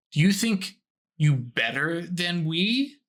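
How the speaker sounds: twisted, malicious, resonant voice. Voicing a presence that speaks in the scene: twisted, malicious voice. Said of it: "the voice is a little more twisted".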